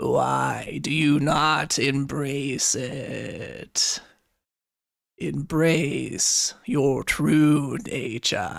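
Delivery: dry, scraping, sandpaper-like rasping voice. A laughing, half-recognized voice speaks to you, in a dry, rasping voice. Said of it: "dry, rasping voice, like sandpaper".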